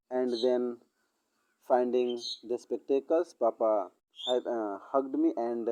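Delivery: story dictated word by word, very slow; slow dictation. Acted. Teacher dictates the sample story to students, very slow. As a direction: spell it out slowly for students to copy.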